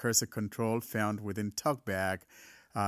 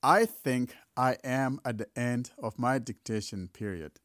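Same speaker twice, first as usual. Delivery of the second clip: dictating. Shown as a demonstration. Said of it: "Let me just quickly demonstrate that".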